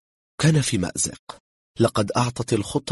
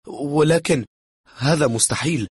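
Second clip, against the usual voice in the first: high, louder alarmed protest; shaken disbelief; 7 semitones higher, 5 dB louder than usual. A narrator's reading. German guest refuses to believe the killing, shaken protest. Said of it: "ارتعد الألماني".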